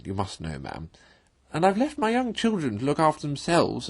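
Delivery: a put-upon washerwoman pouring out troubles, lightly played; Toad as washerwoman. Toad in disguise pleads to the bargewoman, lightly voiced fretful washerwoman.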